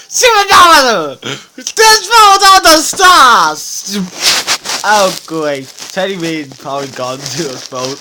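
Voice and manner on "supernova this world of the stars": dramatic announcement. Pretend. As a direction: announce it like an epic. Dramatic toy space story.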